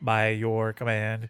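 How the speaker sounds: slowed mock robot voice. Describing the old suited robots he wants, showing how they talk, in a robotic Cylon voice. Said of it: "The ones that talk like this".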